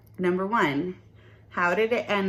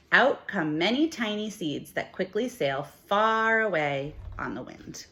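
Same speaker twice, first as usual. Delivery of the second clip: lively, expressive storybook reading for a class; reading to children. Acted. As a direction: read it like a picture book for little kids. Teacher reads picture book aloud.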